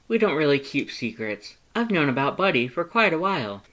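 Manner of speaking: high, loud, eager skeleton; Papyrus voice. A narrator's reading. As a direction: talk up your past like an earnest, excitable skeleton. Papyrus explains.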